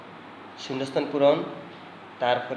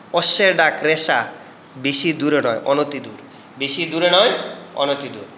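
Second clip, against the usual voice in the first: put-on loud, measured read for children to copy; louder dictation voice for copying; 4 dB louder than usual. Shown as a demonstration. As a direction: spell it out clearly for the class. Rereads the list for dictation.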